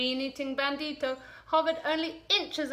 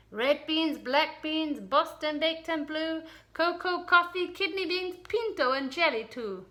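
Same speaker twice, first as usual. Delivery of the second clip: excited; 5 semitones higher than usual. Acted. Character lists beans, lively.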